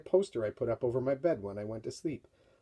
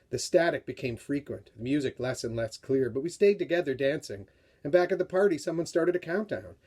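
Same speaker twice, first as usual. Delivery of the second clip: dramatic read-aloud of a novel excerpt; story reading. A narrator's reading. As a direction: read it like a tense story for young readers. Author reads book excerpt aloud.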